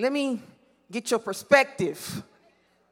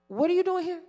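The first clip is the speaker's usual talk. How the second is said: asked higher, pressing him; the Lord demands an answer, raised; pointed question; 8 semitones higher, faster than usual. Acted. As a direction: press the question home, pitched up. The Lord's question retold.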